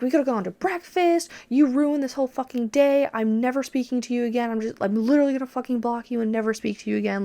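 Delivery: put-on furious boyfriend berating her while driving; retold screaming. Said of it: "screaming this shit at me".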